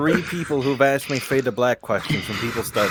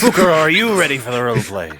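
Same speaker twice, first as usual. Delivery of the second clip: hype host call; 4 semitones higher, 4 dB louder, faster than usual. Real, not acted. Host hyping a player.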